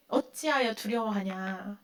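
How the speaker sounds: Jesus gently chiding believers, slow and low; Jesus asking gently. Retold or imitated. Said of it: "그 예수님이 뭐라 그래요?".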